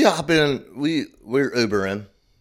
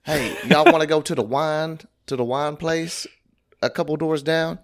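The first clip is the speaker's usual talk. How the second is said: imitating the ladies; 6 semitones higher than usual. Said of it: "they were like".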